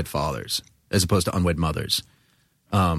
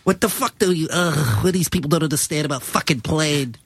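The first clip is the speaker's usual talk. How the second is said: higher, exasperated rant; mock outrage; 6 semitones higher than usual. Imitating Adam fuming at restaurant staff, mock exasperated. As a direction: play his disbelief over plain. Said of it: "he gets so bent out of shape".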